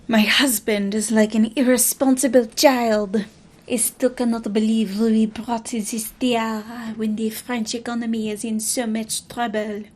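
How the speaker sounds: put-on a light French accent, reading as Marie. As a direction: voice the queen with a hint of French accent. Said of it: "I know she wouldn't have a French accent".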